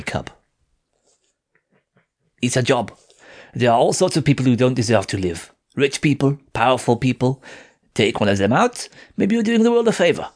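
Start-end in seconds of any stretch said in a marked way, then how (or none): 2.4-10.3 put-on cool, dismissive young woman; lightly voiced curt French girl.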